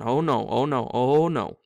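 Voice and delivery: rising panic, repeating fast; panicky. Acted. Frightened boy in the dark, panicking. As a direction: Ron losing his nerve, voice climbing.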